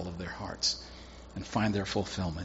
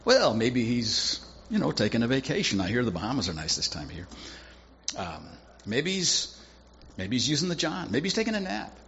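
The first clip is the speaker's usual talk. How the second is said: mocking taunt. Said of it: "Elijah begins to mock him".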